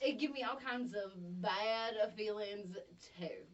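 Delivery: put-on slow, drawn-out Southern accent; exaggerated Southern drawl; southerned-up echo. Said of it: "when I really southern it up".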